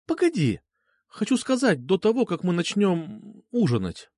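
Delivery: lightly voiced young woman. Girl's voice in dialogue.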